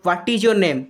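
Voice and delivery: "ହ୍ୱାଟ୍ ଇଜ୍ ୟୋର୍ ନେମ୍" as an emphatic question; rising question intonation. Shown as a demonstration. Teacher repeating the example question to students, "ହ୍ୱାଟ୍ ଇଜ୍ ୟୋର୍ ନେମ୍" with emphatic question intonation. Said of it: "ମୁଁ ଆପଣଙ୍କୁ ଜୋରରେ ପଚାରୁଛି".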